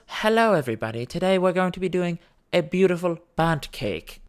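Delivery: chirpy cooking-show host voice; sweet baking host. Retold or imitated. Mary greets her baking viewers, chirpy host voice. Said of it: "And she goes".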